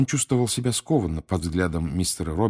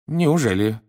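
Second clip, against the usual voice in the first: higher, uneasy question; nervous; 6 semitones higher, 4 dB louder than usual. A narrator's reading. Mr Weasley hears of gold coins, nervous. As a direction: react with a nervous lift in pitch. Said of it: "занервничал мистер Уизли".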